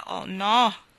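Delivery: a loud cry of protest. Acted. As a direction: burst out in refusal.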